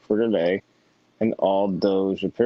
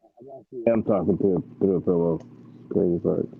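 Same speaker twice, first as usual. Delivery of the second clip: into a pillow. Real, not acted. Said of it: "we can't really understand you".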